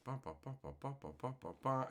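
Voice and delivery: soft run of quick ba-ba sounds; absent-minded ba-ba-ba while searching; idle ba-ba filler. Real, not acted.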